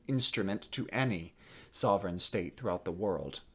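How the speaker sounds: measured, controlled Shakespearean defiance; proud young prince. Acted. French prince refusing the cardinal's orders, controlled defiance. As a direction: hold your ground formally, anger held in. Performs Louis's classical monologue.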